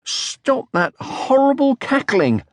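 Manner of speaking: high, slow, drawn-out shout. Acted. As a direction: yell at the monkey to stop. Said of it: "shouted Moomin Troll".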